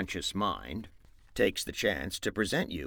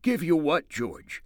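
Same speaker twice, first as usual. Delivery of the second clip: put-on higher, stammering childish voice; simple-minded Lenny; 9 semitones higher, 7 dB louder than usual. Lenny to George, stammering and faking innocence in a high voice. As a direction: play dumb, faking innocence.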